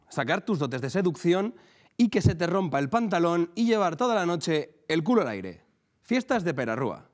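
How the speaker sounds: lee la anécdota con pausas teatrales; lectura cómica en público. Acted. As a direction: dosifica cada frase para el público. (lectura declamada de una anécdota)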